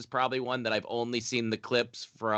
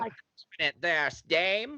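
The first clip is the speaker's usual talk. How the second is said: put-on old-timey gangster voice; slower than usual. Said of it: "but with old-timey voices".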